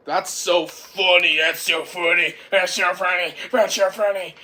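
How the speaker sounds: loud, jeering chant; mock him again and again, loudly; loud mocking repeat. Boy laughs at lost Turbo.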